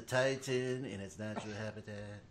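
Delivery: put-on French accent. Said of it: "That's whose voice we need".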